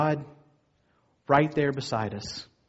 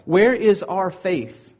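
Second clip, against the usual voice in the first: drawn-out, emphatic question, pressing the congregation; slow, ringing rhetorical challenge; 3 semitones higher, 4 dB louder, much slower than usual. Real, not acted. Preacher challenges the congregation when storms come, emphatic.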